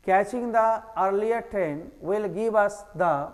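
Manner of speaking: slow read. Shown as a demonstration. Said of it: "teacher reads question slowly".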